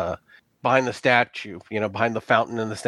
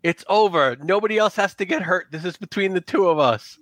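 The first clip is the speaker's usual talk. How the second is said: raised, higher voice calling up to Lynette; 6 semitones higher than usual. Acted. Villain calls up to Lynette to end the fight, raised. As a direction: call up to her, pleading to end it. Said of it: "he just, like, yells up".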